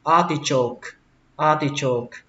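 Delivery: artichoke lifted on "ar", falling afterwards. Shown as a demonstration. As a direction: stress the opening ah of "artichoke". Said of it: "Lên dòng âm đầu tiên".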